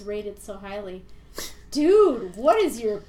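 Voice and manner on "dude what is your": exasperated. Acted. Exasperated reaction to a harsh review.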